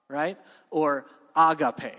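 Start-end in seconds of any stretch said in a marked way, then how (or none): 1.3-1.9 agape said slowly with the stress moved; agape, other stress. Shown as a demonstration. Preacher to students, agape slowly with shifted stress. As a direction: say agape stressing a different syllable. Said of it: "depending on what emphasis on which syllable you put".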